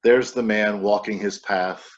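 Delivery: measured recital with called-out waits; poem reading. Acted. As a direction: poet reading a bird poem aloud. Reads poem Here.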